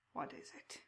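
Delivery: soft whispered question from the crow man; soft raspy whispered what is it; hushed creature whisper. Acted. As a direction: breathe the question like a secret. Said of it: "speaks with a slow, raspy cadence".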